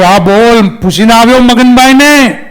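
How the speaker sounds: a hint of an eerie ghost answering. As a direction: ghost answering the priest's call, lightly eerie. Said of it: "ભૂતે અવાજ કર્યો".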